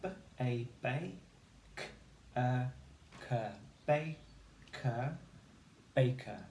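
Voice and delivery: "bay" then "K, baker" drawn out slowly; blending baker. Shown as a demonstration. Teacher blending baker step by step. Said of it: "so we have".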